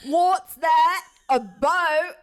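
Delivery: startled, rising alarm; alarmed cry of a startled guest. Acted. Character alarmed at sudden noise.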